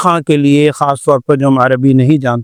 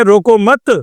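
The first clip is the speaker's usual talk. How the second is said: روکو مت run together, raised, then stop; pause after مت; 4 semitones higher, slower than usual. Shown as a demonstration. Teacher showing the opposite meaning, روکو مت joined and cut off. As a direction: attach مت to روکو and break the breath after مت. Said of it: "سانس توڑ دیں".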